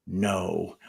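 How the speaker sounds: low, softened aside; mock whisper. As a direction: say it softly, as if whispering. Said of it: "I'll whisper".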